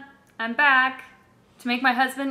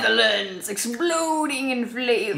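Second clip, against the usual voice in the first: mock advertising slogan. Wife turning husband's faint praise into a slogan, mock-grand. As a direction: proclaim it like a spoof advert.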